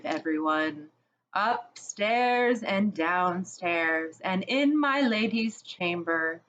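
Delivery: lightly voiced lion, slow and commanding; rally the crowd, unhurried; lion's commanding voice. Aslan ordering everyone to search the castle, lightly voiced command. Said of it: "said Aslan".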